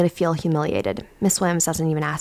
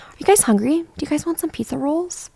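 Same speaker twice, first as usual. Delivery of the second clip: warm inviting; 8 semitones higher than usual. Acted. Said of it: "with a warm, inviting smile".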